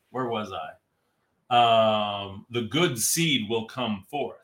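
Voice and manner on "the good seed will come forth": dramatic slow narrator read; movie trailer voice. Shown as a demonstration. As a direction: epic trailer delivery. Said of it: "the movie voice".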